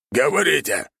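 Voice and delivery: high squeaky bark; rat lord barking. A narrator's reading. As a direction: snap the command, rat lord. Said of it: "рявкнул владыка".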